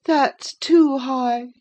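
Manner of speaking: high, slow, peevish complaint; fretful murmur. A narrator's reading. Linton murmuring to Catherine, high, slow and peevish. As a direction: drag it out like a spoilt invalid. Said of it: "murmured the provoking thing".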